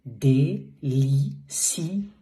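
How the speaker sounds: Délicieux drawn out very slowly, syllable by syllable; slow teacher model of Délicieux; slow French demo. Shown as a demonstration. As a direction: stretch out Délicieux with a pure French u sound. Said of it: "Not ou, not en, e".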